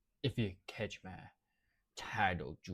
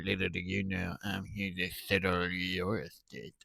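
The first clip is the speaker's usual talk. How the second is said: put-on old hag; 9 dB louder than usual. Dubbing a creepy character.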